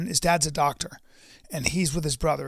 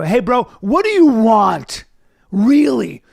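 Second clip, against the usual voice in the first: mock guru; 4 semitones higher, 4 dB louder than usual. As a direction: preach it like a motivational coach. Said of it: "just go".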